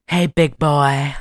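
slow, low, sultry come-on; hammed-up seductive drawl; overtly seductive. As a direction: imitate a seductress purring a greeting, slowly. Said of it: "she's being super overtly sexual".

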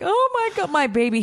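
put-on high-pitched gush over a child; gushing mom. Mom reacting to her crying son, high pitying gush. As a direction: coo it high, aching for your child.

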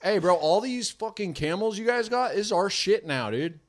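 put-on light Moroccan bro accent; playful Moroccan tribe voice. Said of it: "Is that your Moroccan accent?".

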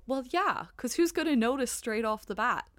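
as if it's perfectly obvious; acted reaction. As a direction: pitch lifts on a 'well, obviously'. Acting out viewer's reaction.

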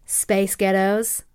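slow, put-on American accent; drawn-out mock American accent. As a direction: try it slowly in an American accent. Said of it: "get an American accent".

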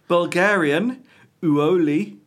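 put-on a loud, sing-song stab at a Bulgarian accent; reading Uoli with a badly faked Bulgarian accent; failed Bulgarian accent. Reading a list of names, mock Bulgarian accent. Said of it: "That definitely wasn't a Bulgarian accent".

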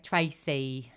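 put-on Tracy drawn out with a light London English accent. Podcaster naming the mum, in a light London accent. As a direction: say Tracy like an East End local. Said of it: "I just say Tracy in that accent".

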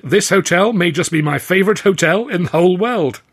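high, loud gleeful declaration; exclaimed. A narrator's reading. Mike declaring his delight to the lads, exclaiming. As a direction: crow it with swooping emphasis. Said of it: "Mike exclaimed".

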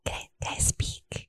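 voiceless, hesitant whisper; timid whisper. Acted. Cordy, magically silenced, timidly whispering. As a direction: ask like you might get punished.

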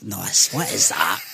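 lightly attempted Newcastle accent. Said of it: "I kinda did a Newcastle accent".

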